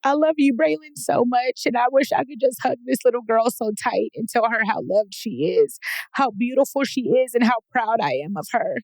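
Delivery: high, choked-up voice on the verge of tears; emotional, nearly crying; tearful, voice breaking. Real, not acted. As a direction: push the words through real tears. Tearful after reading old letter.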